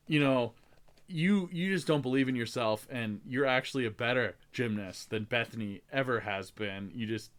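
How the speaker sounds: soft, tender encouragement; gentle pep talk. Retold or imitated. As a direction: reassure her quietly, sincerely. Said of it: "he talks to her".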